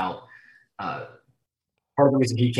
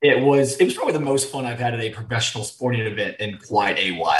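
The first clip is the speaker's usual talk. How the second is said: hoarse, lost voice. Real, not acted. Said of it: "Dude, you sound terrible".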